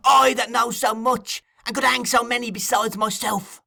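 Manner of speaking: almost a yell. A narrator's reading. Fagin goading Sikes, high near-yell. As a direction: cry it out high, stretching the words. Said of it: "Cried Fagin almost in a yell".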